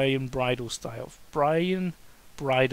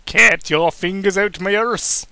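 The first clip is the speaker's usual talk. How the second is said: slow, loud outraged shout; loud protest; 5 semitones higher, 11 dB louder, slower than usual. Acted. Daniel shouting at Kane to stop, loud protest.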